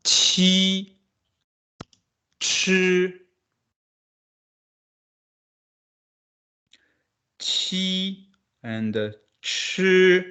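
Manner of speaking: "Chi" curled back and aspirated, "qi" with the tongue flat and forward, both high; qi versus chi. Shown as a demonstration. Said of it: "Can you hear the difference?".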